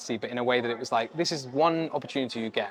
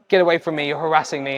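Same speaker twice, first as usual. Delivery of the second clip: louder, higher pretend complaint; mock angry rebuff; 3 semitones higher, 6 dB louder than usual. Imagined star rejecting a pushy fan, mock indignant. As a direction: play at fending off a pest.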